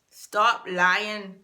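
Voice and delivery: a loose Scouse take on "Stop lying", not exact; mock Scouse accent. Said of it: "how I would interpret his accent".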